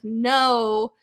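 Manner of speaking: words break into laughter; laughing through it. Retold or imitated. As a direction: laugh as you reassure yourself. Laughing while quoting her own reassurance.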